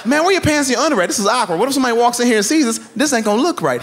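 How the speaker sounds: high alarmed protest; mock shocked protest. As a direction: sound caught off guard. Shocked at naked grandpa.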